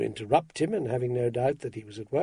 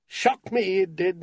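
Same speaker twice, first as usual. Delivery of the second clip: shocked admission; 5 semitones higher, slower than usual. A narrator's reading. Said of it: "Mister Meacher admitted".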